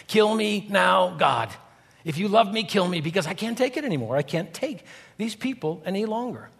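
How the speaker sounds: lightly hammed-up whiny pleading; half-joking whine of a worn-out Moses; whining child. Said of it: "a whining child".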